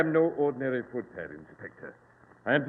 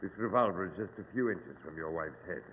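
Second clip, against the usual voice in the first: low menace; 6 semitones lower, 6 dB quieter than usual. Acted. Villain holds gun to wife.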